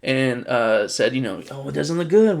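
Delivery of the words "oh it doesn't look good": lightly voiced pleading foreign leader, higher; a hint of a wheedling negotiator offering a deal; half-hearted mock plea for a deal; mock dealmaker voice.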